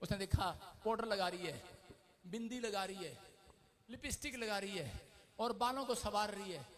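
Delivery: ordinary talk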